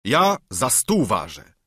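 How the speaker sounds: slow, proud knightly boast; mild mock yell. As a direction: declare it slowly and grandly. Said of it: "wrzasnął Don Kiszot".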